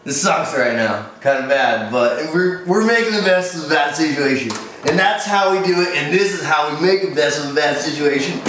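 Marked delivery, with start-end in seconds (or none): 0.0-4.5 hungover. Acted. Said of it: "I'm so hungover".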